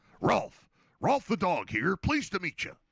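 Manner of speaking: high, swooping puppet dog voice, in full swing. Quoting a Muppets line, the speaker slips into a Rolf the dog voice. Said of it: "I didn't know I could do that voice that well".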